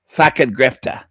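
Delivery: lightly mimicked Aussie twang on the insult; mock Australian accent. Reactor throwing insult at YouTuber, mock Australian accent. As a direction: jeer in a put-on Australian accent.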